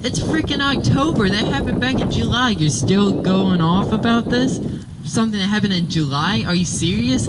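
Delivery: high-pitched retold disbelief; incredulous protest. Retelling a retort to a coworker about July, incredulous.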